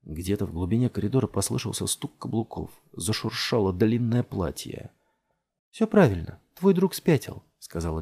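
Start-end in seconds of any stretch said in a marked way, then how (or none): 5.7-7.4 mother, urgent. A narrator's reading. Mother's voice in story.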